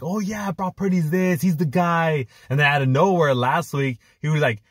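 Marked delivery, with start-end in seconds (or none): 0.0-2.3 lightly raised mock praise voice; a hint of a gushing pundit; mocking Ryan Clark. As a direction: ape the analyst's cheerleading, higher. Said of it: "this guy was like".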